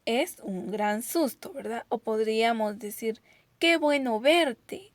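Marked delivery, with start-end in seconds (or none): 3.6-4.9 más fuerte y agudo, despacio; exclamación alegre. Shown as a demonstration. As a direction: saluda con alegría exagerada. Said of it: "expresan nuestro, nuestras emociones". (exclamación alegre y lenta)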